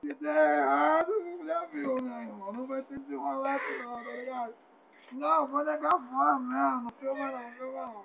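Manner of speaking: fake crying. Pleading while fake crying.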